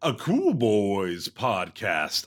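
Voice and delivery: big swooping announcer intro; podcast announcer. Acted. Host greeting the listeners, hammed-up announcer. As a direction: boom out the show title with stretched words. Hosts the show's opening.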